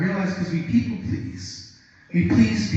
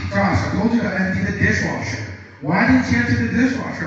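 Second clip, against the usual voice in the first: higher, louder, fast nagging; nagging wife voice; 4 semitones higher, 4 dB louder, faster than usual. Retold or imitated. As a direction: nag him about the dishwasher. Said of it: "So she goes".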